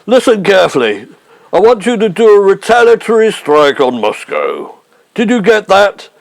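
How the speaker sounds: lightly voiced statesman straining to be heard; a hint of Macmillan, calling down a bad line; Harold Macmillan. Prime Minister insisting he is real, lightly voiced. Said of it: "I'm the real Harold Macmillan".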